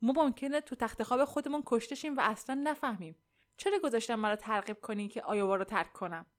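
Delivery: mildly alarmed complaint; appalled, appealing to a husband; a touch of dread and reproach; shuddering dismay. Acted. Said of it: "لرزید و گفت".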